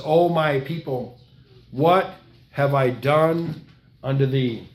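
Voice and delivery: very slow, drawn-out and sorrowful; slow grieving plea. Acted. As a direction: stretch each word like a wounded father. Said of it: "He says".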